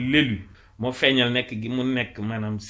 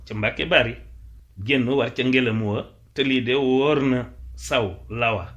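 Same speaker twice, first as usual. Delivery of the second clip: poem recitation. Acted. Teacher reciting a Wolof praise poem, declaimed. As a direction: declaim each short line, pausing after it.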